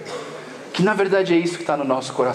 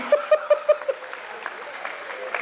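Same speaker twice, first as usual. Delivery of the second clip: high wheezing laughter; airy, high-pitched giggle; high breathless laugh; 5 dB quieter than usual. Real, not acted. Still laughing at own story.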